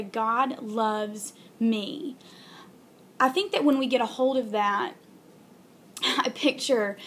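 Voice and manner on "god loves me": slow, heartfelt, each word weighed; sincere and slow. Shown as a demonstration. Aunt telling her vlog viewers, slow and sincere. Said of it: "to sit down and really say".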